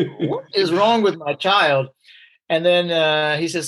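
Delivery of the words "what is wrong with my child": slow, puzzled mother voice, a touch higher; lightly voiced worried mom, drawn out; mother puzzled by her odd child, slow; baffled mom.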